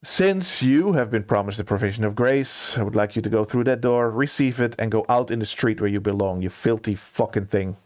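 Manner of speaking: cold, contemptuous dismissal in a level voice; no emotion. Acted. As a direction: dismiss them without a trace of feeling. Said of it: "with no emotion at all".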